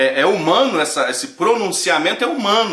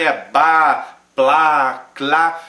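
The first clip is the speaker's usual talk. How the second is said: mock tongues; 5 dB louder, much slower than usual. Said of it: "mas é muito parecido os sons".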